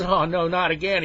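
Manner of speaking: high, loud acted dismay; dismayed protest. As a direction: wail in mock dread.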